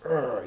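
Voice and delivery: frustrated growl imitating an angry boy. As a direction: growl out a mock burst of anger. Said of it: "angry at the world".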